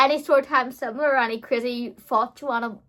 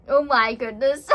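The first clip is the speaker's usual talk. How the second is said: slow, higher words breaking into loud laughter; laughing; 11 semitones higher, 8 dB louder than usual. Real, not acted. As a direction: crack up on an incredulous exclamation. Cracking up at own memory.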